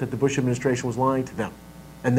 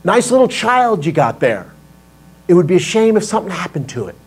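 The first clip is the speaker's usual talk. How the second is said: mobster shakedown voice; sweetly menacing mob threat; smiling threat. Pretend. Mafia-style threat with props demo.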